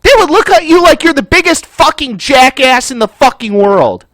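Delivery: pissed off. Real, not acted. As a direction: rant in exasperation, leaning on the swearwords. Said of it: "it pisses me off".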